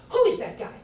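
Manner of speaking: breathy whisper in amazement; whispered aside. Retold or imitated. Friend whispering beside the speaker, amazed. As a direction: lean over and whisper it.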